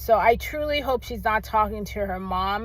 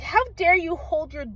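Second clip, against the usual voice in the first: retold angry scolding; 5 semitones higher than usual. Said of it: "But I got so angry".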